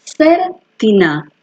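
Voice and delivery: Sertiná spoken very slowly, ser-ti-ná, stress on the last syllable; sertiná stretched out syllable by syllable; Hebrew word sertiná. Shown as a demonstration. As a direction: unveil Sertiná slowly like a revelation. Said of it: "¿y qué me sale ahí?".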